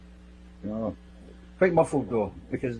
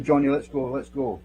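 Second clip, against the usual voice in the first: firm, louder urging to leave; a firmer, louder let's go; more forceful; 2 semitones higher, 4 dB louder than usual. Retold or imitated. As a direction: push him out the door with your voice. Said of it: "it's a wee bit more force".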